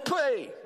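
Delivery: a sharp, high, loud "pej!" spit noise; spitting sound. Retold or imitated. Spitting on the man's arm, imitated loud spit noise.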